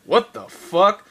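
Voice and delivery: slow, drawn-out what the fuck; slowed mock shock; stunned disbelief. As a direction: gape at it in disbelief. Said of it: "Asami's face was just like".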